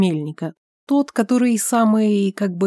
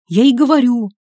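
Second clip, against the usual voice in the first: higher and louder, snapping back; raised voice; 5 semitones higher, 6 dB louder than usual. A narrator's reading. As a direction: finally raise your voice at him. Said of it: "Шибаев тоже повысил голос". (Шибаев огрызается на Алика, повышая голос)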